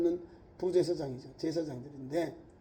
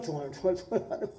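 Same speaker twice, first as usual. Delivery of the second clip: put-on drunken mumbling; 5 semitones lower, 9 dB quieter, faster than usual. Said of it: "술 취한 것처럼".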